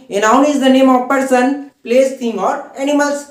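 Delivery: slow, word by word dictation; dictation pace. Shown as a demonstration. Teacher dictates the noun definition to students, very slowly. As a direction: spell it out slowly for notes.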